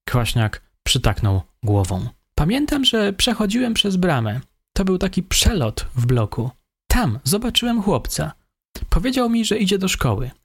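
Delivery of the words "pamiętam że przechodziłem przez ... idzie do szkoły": higher, meek voice of the suspect. A narrator's reading. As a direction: play the timid young killer, higher. Suspect recounts the crime.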